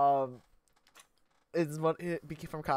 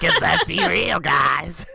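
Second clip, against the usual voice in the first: playful shout; 3 semitones higher, 9 dB louder, much slower than usual. Real, not acted. Teasing shout to players.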